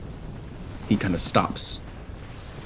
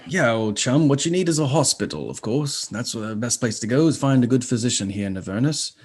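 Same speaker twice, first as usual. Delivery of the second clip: flustered imp professor; 2 semitones higher than usual. Acted. Imp professor introducing himself to travellers, flustered and fussy. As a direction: trip over the words like a nervous bureaucrat. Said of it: "devilish imp".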